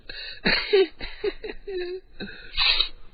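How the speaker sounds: airy high-pitched laugh; high breathy laugh. Real, not acted. Laughing at own joke.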